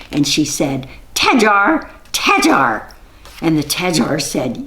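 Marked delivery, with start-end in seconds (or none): 1.1-2.9 high witch call, loud then fading; sing-song witch summons. Acted. Witch calls the Tajar.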